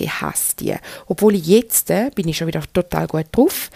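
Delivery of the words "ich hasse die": softer, breathy whisper of ich hasse die; whispered confession of hating those days. Shown as a demonstration. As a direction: confide it under your breath. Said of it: "Kann ich jetzt wirklich mal sagen".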